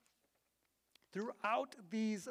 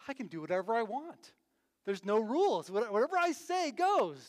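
put-on excited child; 2 semitones higher, 4 dB louder than usual. Voicing a four-year-old's belief.

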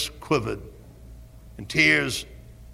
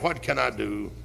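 despairing cry; 4 semitones higher, 4 dB louder than usual. Retold or imitated. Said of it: "wrung your hands and cried".

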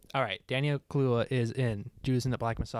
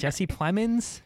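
surprised; 7 semitones higher, much slower than usual. Real, not acted. Incredulous echo of actor name.

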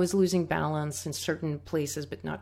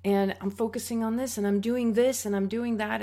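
a mock-tearful telling of the student to her teacher; through tears; 5 semitones higher, faster than usual. Student pouring out her effort to the teacher, tearful. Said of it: "I, through tears".

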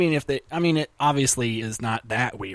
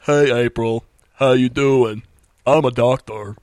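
loud, put-on Southern drawl for a TV doctor; Doctor Phil Southern accent; 7 dB louder, slower than usual. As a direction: lay on a thick Southern accent, booming. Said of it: "a big Southern accent ... talked like Doctor Phil".

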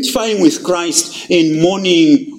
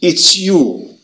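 contrite confession; 5 semitones lower, slower than usual. Acted. Disciples falling before Jesus in low, slow contrition. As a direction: lower and slowing, broken contrition. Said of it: "And they fall and say".

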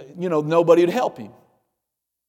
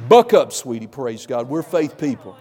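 encouraging spouse; 2 semitones lower, 4 dB louder than usual. Retold or imitated.

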